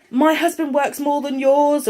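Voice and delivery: slow, smug mock brag; a lightly put-on snooty voice; mocking boast. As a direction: sneer it like a show-off mum. Mocking a bragging mum.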